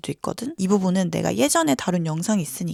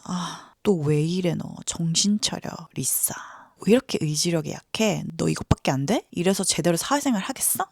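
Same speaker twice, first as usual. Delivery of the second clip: self-reproach; 2 semitones lower than usual. Retold or imitated. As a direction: mutter harsh words at yourself, half under breath. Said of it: "이렇게 자책했지". (자기 자신을 나무라듯 느리고 낮게)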